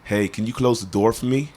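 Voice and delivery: a model American line; American accent. Shown as a demonstration. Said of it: "Say it again".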